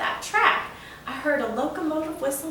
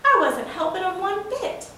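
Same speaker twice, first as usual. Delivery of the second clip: laughing denial; 8 semitones higher, 4 dB louder than usual. Acted. General laughs off the accusation.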